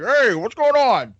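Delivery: lightly imitated hearty roommate; hint of a mock deep voice, greeting the room; deep-voiced Irish guy. Friend showing how his Irish roommate greeted people, mock deep voice. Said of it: "he'd have the deep voice".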